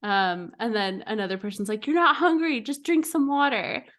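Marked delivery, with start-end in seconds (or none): 1.9-3.8 higher-pitched mock scolding yell; mock scream. Almond mom in a death match, mock screaming. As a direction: imitate a battle cry, only half shouted. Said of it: "screaming these phrases at each other".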